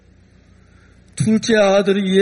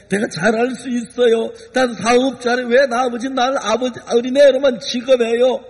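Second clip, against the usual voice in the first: defiant son. Acted. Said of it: "하고 막 대들었을 때".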